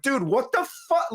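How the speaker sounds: high, pissed-off mock yell of a fed-up teen; mock outrage. Recounting Chet's outburst, a mock pissed-off cry. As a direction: play the angry brother, half in jest. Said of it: "he's like".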